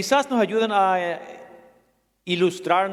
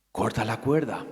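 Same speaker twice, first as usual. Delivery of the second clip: a lower, hushed divine voice; voice of God; 7 semitones lower, 4 dB quieter than usual. Acted. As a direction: speak down calmly as God. God repeats his command.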